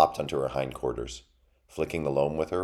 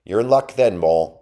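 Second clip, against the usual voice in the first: high, loud battle taunt; taunting mouse; 5 semitones higher, 11 dB louder than usual. A narrator's reading. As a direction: crow it boldly at the intruder. Mouse taunts before attacking.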